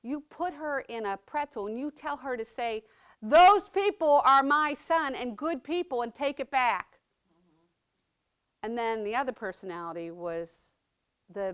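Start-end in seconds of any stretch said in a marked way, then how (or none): 0.0-7.0 a hint of son coaching her, slow, with a loud end; lightly voiced son pushing her to fight back; mildly voiced Tommy egging her on; son's fighting voice. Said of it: "Tommy was right up here saying".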